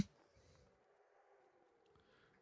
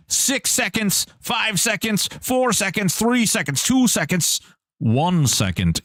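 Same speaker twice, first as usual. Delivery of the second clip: higher, urgent countdown; countdown call; 7 semitones higher than usual. Real, not acted. Streamer counting down the raffle end to chat, high excited countdown. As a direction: count them down like a game show host.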